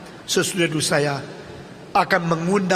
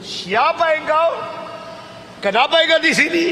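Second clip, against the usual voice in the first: calling down; 9 semitones higher than usual. Acted. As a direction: challenge the stranger below. Passerby calls down into pit.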